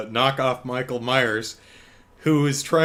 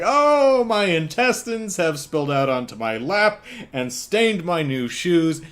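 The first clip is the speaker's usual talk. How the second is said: mock whiny victim; 4 semitones higher than usual. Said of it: "When the victims are like".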